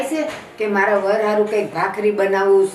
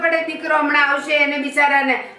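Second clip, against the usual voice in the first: scolding husband; 4 semitones higher than usual. Acted. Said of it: "શું કામ આટલી બધી રાડો નાખો?".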